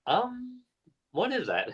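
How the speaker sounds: high, wary "what is that"; nervous question. Retold or imitated. Betty asking about needle.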